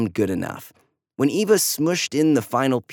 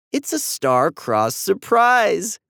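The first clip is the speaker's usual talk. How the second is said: higher, slow, bright announcement; exclaiming; 8 semitones higher, slower than usual. A narrator's reading. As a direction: proclaim it from the stairs. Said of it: "Mom exclaimed from the stairs".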